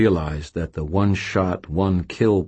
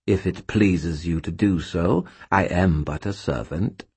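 contemptuous skull voice. Acted. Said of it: "the contempt in its tone".

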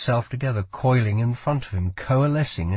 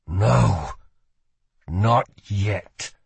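defiant; much slower than usual. A narrator's reading. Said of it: "thought Cal".

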